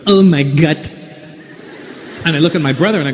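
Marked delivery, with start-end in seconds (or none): 0.1-0.9 put-on Filipino English outburst; Filipino accent. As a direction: exclaim in a mock Filipino accent, "God" like "gut". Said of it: "the lady in the front seat turns to us and goes".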